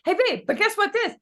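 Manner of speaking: high, loud playful call to husband; teasing wife call. Retold or imitated. Instagram lady calling her husband, playful and high. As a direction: call out to your husband in the other room. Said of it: "then says".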